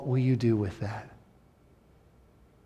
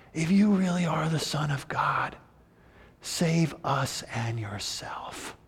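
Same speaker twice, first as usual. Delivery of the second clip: breathless, softer whisper; gasping plea; 6 dB quieter than usual. Retold or imitated. Dying thief gasps to Jesus beside him, whispered. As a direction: gasp it out, barely able to speak. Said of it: "turns to Jesus and gasps".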